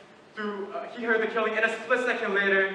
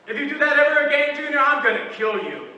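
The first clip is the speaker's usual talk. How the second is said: a raised, exasperated parent scolding Junior; mock scolding; 5 semitones higher, 6 dB louder than usual. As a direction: threaten the kid, half in jest. Scolding a child, everyday threat.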